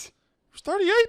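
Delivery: high, drawn-out disbelief; astonished. Real, not acted. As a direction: blurt it out in astonishment. Astonished at the actor's age.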